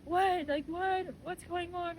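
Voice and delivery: high-pitched bewildered questioning; weirded out. Retold or imitated. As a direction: imitate a confused mother on the phone. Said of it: "And really weirded out".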